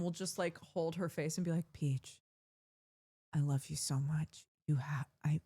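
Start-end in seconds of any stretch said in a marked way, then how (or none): 1.7-5.4 pleading. Retold or imitated. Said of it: "just pleading with her".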